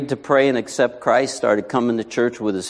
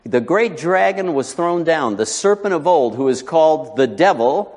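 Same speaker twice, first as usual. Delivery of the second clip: raised, declamatory Bible reading; higher-pitched, ringing pulpit reading; preacher reading Scripture; 4 semitones higher than usual. Real, not acted. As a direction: proclaim the verses to the congregation. Reads Scripture to congregation.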